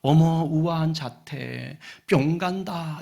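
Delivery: swooning duckling, gently hammed-up; lingering wonder; acted admiration. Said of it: "놀라는 거예요".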